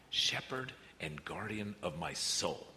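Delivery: "Shepherd and guardian of my soul" read slowly and gently; a slow, tender reading of the verse; slow reverent reading. Real, not acted. Reading the verse, then repeating it.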